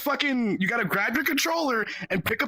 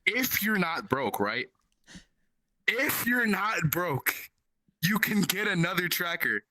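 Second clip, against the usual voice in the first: pointed quoting back; 4 semitones lower than usual. Retold or imitated. Throwing a friend's tactless advice back, pointed quoting.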